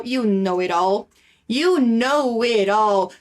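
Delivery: You know it all drawn out slowly; slow teacher drill; slow model phrase. Shown as a demonstration. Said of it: "So, they play football".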